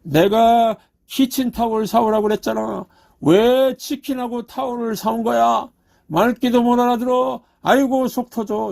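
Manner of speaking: a hammed-up scolding over kitchen towels; angry wife. Pastor retelling a wife angry about chicken and towels, mock angry. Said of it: "부인이 막 화를 내면서 말했다고 합니다".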